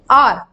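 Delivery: "आर" said with no h, like "aar"; silent h. Shown as a demonstration. Teacher correcting students, "आर" with silent h. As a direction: drop the h, say "आर" as "aar". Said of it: "हार नहीं".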